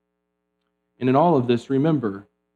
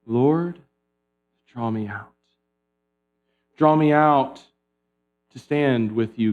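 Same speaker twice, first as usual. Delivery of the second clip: breath prayer. Shown as a demonstration. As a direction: pray it gently on the breath. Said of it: "a breath prayer".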